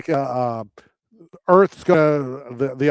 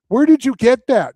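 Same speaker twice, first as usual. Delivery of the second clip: higher and louder, caught off guard; startled outburst; 10 semitones higher, 6 dB louder than usual. Retold or imitated. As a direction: blurt it out in shock. Ed O'Neill catches the toaster thief.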